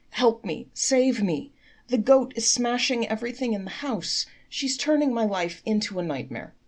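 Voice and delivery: high, loud wailing complaint. Acted. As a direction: keep wailing, begging to be saved. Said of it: "he wailed".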